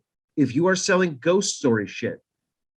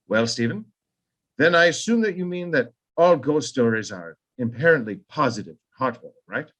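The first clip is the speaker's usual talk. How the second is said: lightly faked British accent; a hint of a British caller; bad British accent; 2 semitones lower than usual. Kubrick pressing King, light British accent. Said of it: "terrible British accent".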